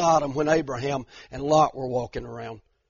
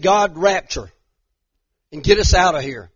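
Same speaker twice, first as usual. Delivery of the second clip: loud pleading cry to be rescued; mock rapture plea; 3 semitones higher, 6 dB louder than usual. Preacher mocks how churches begged God for rapture, loud plea. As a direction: ham up a desperate prayer to be taken away. Mocking the old rapture prayer.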